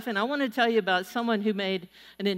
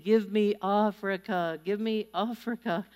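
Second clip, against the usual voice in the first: put-on pleading German accent. Recalling a German evangelist pleading with God, light German accent. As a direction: imitate a German preacher pleading, without the yell. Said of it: "yelling and pleading".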